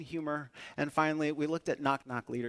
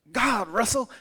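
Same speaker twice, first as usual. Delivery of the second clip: mock Irish accent; 8 semitones higher, 6 dB louder than usual. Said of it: "I heard him say".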